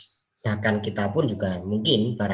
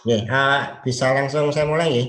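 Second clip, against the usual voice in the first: hoarse and higher, louder; 5 semitones higher, 6 dB louder than usual. Real, not acted. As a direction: push through a hoarse voice. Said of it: "suara saya agak serak-serak".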